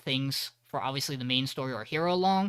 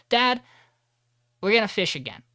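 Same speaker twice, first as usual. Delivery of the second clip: put-on eager kid; 7 semitones higher, 6 dB louder than usual. Son tells dad at station.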